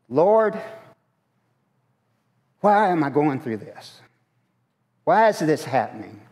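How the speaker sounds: pleading complaint. Retold or imitated. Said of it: "we've gone and said".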